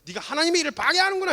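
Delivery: very high, loud mock scolding; imitated rebuke. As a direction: act out a furious telling-off. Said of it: "막 그냥 있는 대로 털려요". (아주 높은 소리로 크게 꾸짖는 흉내)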